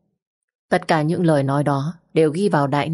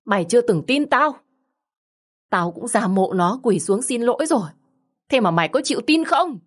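a mild hint of tearful wailing, voice pitched up; wailing and crying; 4 semitones higher than usual. Stepmother tearfully reproaching her son Lâm, mildly wailing. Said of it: "vừa gào vừa khóc thành tiếng".

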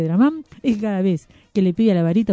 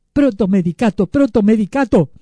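emphatic repeated incantation; magic word; 5 dB louder than usual. A narrator's reading. Magician casting a spell on the wand, incanting. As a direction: chant it like a spell. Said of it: "pronunció la palabra mágica".

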